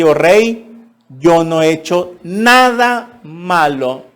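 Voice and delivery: a hint of Daniel shouting from below; Daniel calling up. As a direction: proclaim innocence to the king. Daniel answers from the den.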